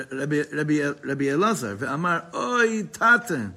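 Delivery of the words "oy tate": anguished sigh. Acted. Son sighs to the tzaddik.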